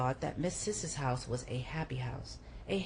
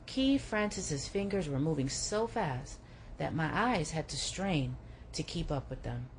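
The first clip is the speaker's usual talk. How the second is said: plain reading voice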